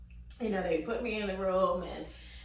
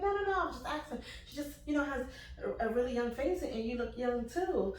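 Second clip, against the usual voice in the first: higher, apologetic nurse voice; backpedaling nurse; 5 semitones higher, 3 dB quieter, faster than usual. Retold or imitated. Nurse excusing her question to mom: higher backpedal. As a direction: play the nurse covering herself.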